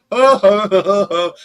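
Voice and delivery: loud string of mock ohs; imitated alarmed cries. Josh as the leash catches his ladder, mock alarm. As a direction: mimic someone losing hold in a panic.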